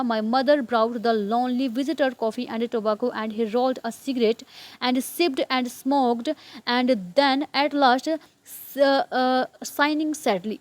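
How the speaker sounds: carefully paced reading aloud for learners; slow story reading. Acted. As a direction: read each English word very slowly and evenly. Slow English reading before translating. (धीमा, साफ़ कहानी-पाठ)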